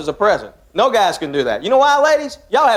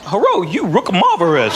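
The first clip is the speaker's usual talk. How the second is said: mock Asian accent; 3 semitones lower than usual. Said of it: "you expect me to say something like".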